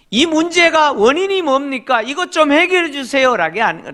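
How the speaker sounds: usual speaking voice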